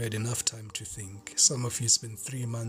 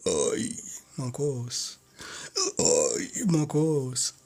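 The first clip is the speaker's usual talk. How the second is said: calling out; much slower than usual. Acted. Calls out to someone off camera.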